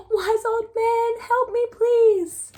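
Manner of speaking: high, pleading cry for help; a desperate old woman begging; pleading old lady. Acted. Lady begs the wise old man for help, high and pleading. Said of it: "Look at her".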